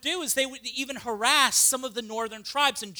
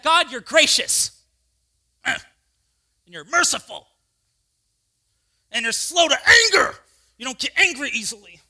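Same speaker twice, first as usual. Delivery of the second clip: louder, sarcastic praise; bitter prayer; 2 semitones higher, 9 dB louder than usual. Acted. Jonah resentfully listing God's mercies, loud and sarcastic. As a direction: spit God's kindness back at him.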